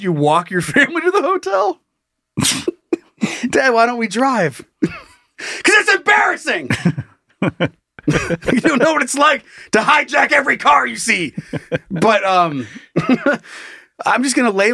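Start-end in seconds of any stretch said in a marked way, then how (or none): 3.5-4.6 put-on kid whining. Kid voiced in a comedy bit. 4.8-6.7 put-on high, slow whine of an embarrassed kid; whiny kid. Kid whining to dad, high and slow. Kid voiced in a comedy bit. 8.5-11.3 mock dad shout. Dad yelling at his kid, high mock shout.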